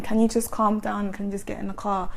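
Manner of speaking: quietly reasoning with someone angry; acted soft, calming request; gentle pleading. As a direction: ask gently, letting the voice drop at the end. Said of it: "I have quite a gentle voice".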